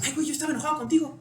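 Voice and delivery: mock careless confession; offhand admission. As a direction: toss it off with a laugh in the voice.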